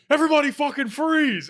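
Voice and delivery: high, loud cop yell; imitated officer shouting a command; shouted police order. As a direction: bellow it like a cop making a stop. Retold cop ordering them to freeze.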